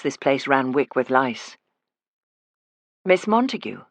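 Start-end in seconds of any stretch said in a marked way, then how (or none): 3.0-3.8 last hint of the Edinburgh accent. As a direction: say her name still in disguise. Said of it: "I let my accent drop".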